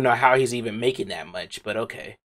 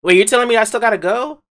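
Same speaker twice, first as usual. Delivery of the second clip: high, quick protesting question; incredulous protest; 8 semitones higher, faster than usual. Pretend. Told to leave the room, incredulous protest. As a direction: shoot it back fast and high in disbelief. Protests at being sent away.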